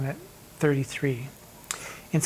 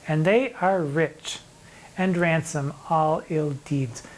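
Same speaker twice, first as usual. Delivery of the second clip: slow poem recital; slower than usual. Acted. Teacher reciting a sonnet to students, slow and measured. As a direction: read the verse slowly and deliberately, each word weighed.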